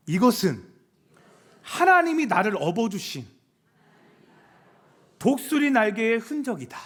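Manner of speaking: firm declaration in phrases, with long pauses; leading a repeat-after-me. Shown as a demonstration. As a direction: call it out for the crowd to echo. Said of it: "한번 같이 따라해볼까요". (따라 하도록 끊어서 힘 있게 외치듯)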